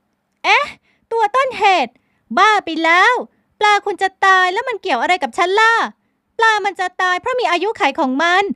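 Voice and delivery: high, loud, protesting outburst; a woman loudly rejecting the blame; indignant young woman. A narrator's reading. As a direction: argue back in outrage. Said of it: "พลอยไหมโวยวาย โต้เถียง".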